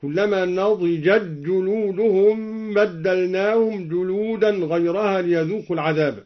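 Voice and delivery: نضجت جلودهم with the t merged into the j; إدغام التاء في الجيم; assimilation of t. Shown as a demonstration. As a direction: run نضجت جلودهم together so the t vanishes into a doubled j. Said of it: "وأدغم التاء في الجيم".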